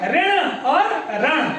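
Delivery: slow sounding out. Shown as a demonstration. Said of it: "रण का उच्चारण".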